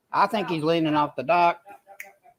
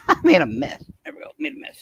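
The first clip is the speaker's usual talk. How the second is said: laughing; 5 semitones higher, 4 dB louder, faster than usual. Real, not acted. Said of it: "Oh, I made a mess".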